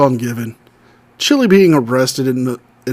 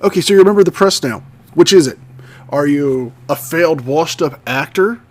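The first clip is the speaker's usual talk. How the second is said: scornful louder retort; 4 dB louder than usual. Real, not acted. Commentator rebuts scornfully.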